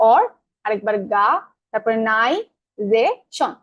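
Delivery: অর, গা, নাই, যে, শন each set apart by a short pause; teacher separating অর, গা, নাই, যে, শন one by one; broken into syllables. Shown as a demonstration. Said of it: "ভেঙে ভেঙে বললাম".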